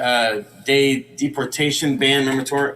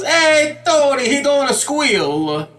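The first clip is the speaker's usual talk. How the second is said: family yelling; 10 semitones higher, slower than usual. Acted. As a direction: shout a warning across the courtroom. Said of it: "His whole family yells".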